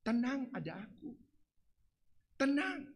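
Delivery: soft hush to calm the sheep; quiet, settling "tenang"; shepherd calming frightened sheep, softly; soothing shepherd. Acted. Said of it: "menyuruh domba-dombanya tenang".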